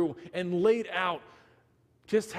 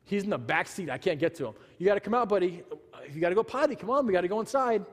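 coaxing nicely; faster than usual. Retold or imitated. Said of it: "I'm talking to him nicely".

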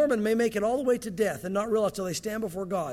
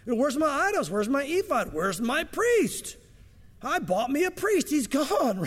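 high, slow, distraught wail of loss; a robbed man crying out for his idols; Micah's frantic cry; 5 semitones higher, slower than usual. Retold or imitated. Micah finds his idols gone, distraught wail. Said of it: "Micah comes home and goes".

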